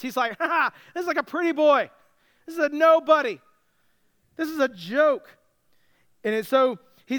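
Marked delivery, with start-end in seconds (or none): 0.4-5.4 higher, louder scoffing taunt; mock laugh, then dismissive jeer; disdainful mockery. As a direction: lightly play a giant sneering at his challenger. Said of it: "he disdained him".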